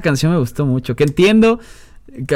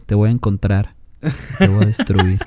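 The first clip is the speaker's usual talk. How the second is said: low, mock-menacing villain threat; a playful hint of a sinister villain; silky menacing villain; 5 semitones lower than usual. Threatening the anonymous low rater.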